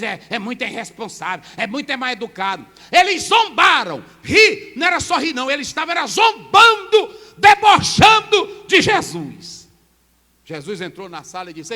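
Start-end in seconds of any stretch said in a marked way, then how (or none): 2.9-9.7 shouted, higher and louder, slowing at the end; preaching shout. Acted. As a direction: hammer home how they mocked. Preaching at full force.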